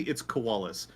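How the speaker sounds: "koalas" in three syllables, ko-AH-lus; canonical pronunciation. Shown as a demonstration. Fan settling the canonical name, correct "koalas" as ko-AH-lus. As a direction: give "koalas" its middle "ah". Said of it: "but canonically".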